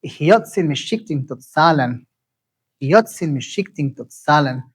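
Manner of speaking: "Hiyotzin Meshiktin Totsalan" with each next-to-last syllable stressed; teacher's clear example of "Hiyotzin Meshiktin Totsalan"; model pronunciation. Shown as a demonstration. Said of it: "it sounds like this".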